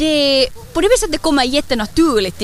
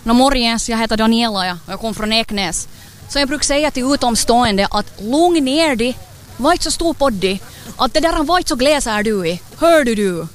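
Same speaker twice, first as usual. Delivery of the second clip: morsk Ekenäsbo som tillrättavisar utomstående; säg till på bred Ekenäsdialekt. Acted. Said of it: "Hur låter det när en Ekenäsbo tar bussen?". (västnyländsk Ekenäsdialekt)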